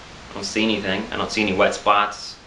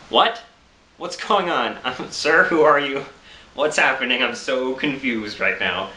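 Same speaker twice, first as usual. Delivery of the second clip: confused; 3 semitones higher, slower than usual. Retold or imitated. Half-asleep confused reply to stranger.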